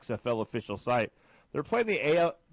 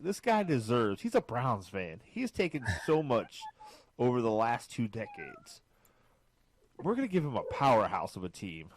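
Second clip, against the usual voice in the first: mock God; 3 dB quieter than usual. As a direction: hand down a divine verdict, unhurried and understated. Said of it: "like, God, in his infinite wisdom".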